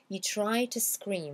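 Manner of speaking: TO as "tuh", slowly linked to scream; slow model line with a weak TO; reduced TO. Shown as a demonstration. Teacher gives learners a line to repeat, TO reduced. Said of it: "vous répétez comme ça".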